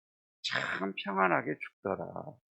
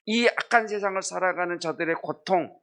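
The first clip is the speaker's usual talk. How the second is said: compassionate lament; 5 semitones higher than usual. Retold or imitated. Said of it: "하면서 고통당하는 자들을 보기".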